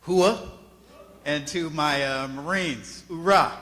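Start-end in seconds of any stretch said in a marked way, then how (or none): 0.0-0.4 shouted hoo-ah, high and loud; loud Army cheer. Real, not acted. 3.1-3.6 shouted hoorah, high and loud; loud Marine cheer. Real, not acted.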